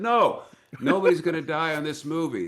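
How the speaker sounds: firm refusal. Retold or imitated. Retold refusal to stunt crew.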